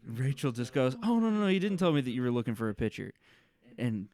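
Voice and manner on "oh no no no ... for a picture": higher, quick run of denials; mock flustered reply. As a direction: imitate a puzzled, protesting partner. Acts out partner's confused reply.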